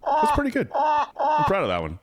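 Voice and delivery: goose voice. Retold or imitated. Goose impression praised.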